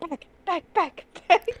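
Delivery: high, repeated caveman barks; caveman talk. Retold or imitated. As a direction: chant back like a caveman. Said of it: "You just start going".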